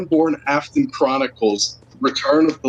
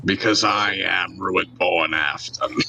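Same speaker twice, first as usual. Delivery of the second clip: creepy monotone; 7 semitones lower, 3 dB quieter, slower than usual. Pretend. Friends parroting the creepy catchphrase.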